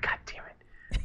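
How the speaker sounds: hushed, drawn-out grumble under the breath; muttered dismay. Retold or imitated. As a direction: whisper it in resigned frustration. Muttered reaction to friend's denial.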